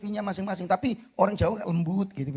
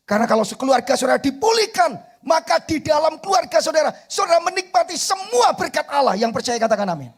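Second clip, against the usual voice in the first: high, loud preacher's cry; shouted preaching; 10 semitones higher, 9 dB louder than usual. Acted. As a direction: rouse the congregation at full voice. Preaching at full force. (khotbah berteriak penuh semangat)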